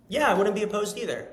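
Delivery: put-on girl voice.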